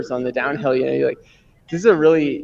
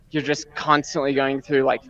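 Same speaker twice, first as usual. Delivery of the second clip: out of breath. Real, not acted. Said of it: "sorry, I'm just catching my breath".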